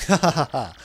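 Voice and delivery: loud mocking stage laugh; a big theatrical ha ha; hammed-up laugh. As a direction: laugh down at the fool. Flavio mocks shipless hero.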